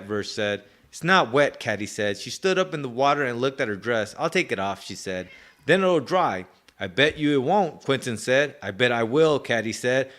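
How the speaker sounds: lively read-aloud with character voices. Acted. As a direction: read the page and act out the kids. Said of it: "let me read a page".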